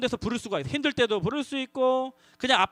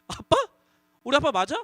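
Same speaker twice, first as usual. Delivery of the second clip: 갸웃하며 묻는 아이 흉내; 진짜 우리 아빠인지 확인하듯; 확인하는 아이. Shown as a demonstration. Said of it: "신분 확인 버전". (아이가 아빠에게 묻듯, 살짝 흉내 낸 의아한 말투)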